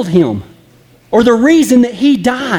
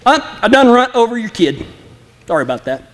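careless shrugging apology; faster than usual. Retold or imitated. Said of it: "Would you walk up and say".

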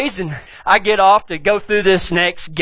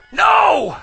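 sharp no; 8 semitones higher than usual. Retold or imitated. Wife shouting back.

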